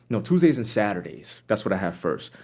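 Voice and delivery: ordinary talk, nothing marked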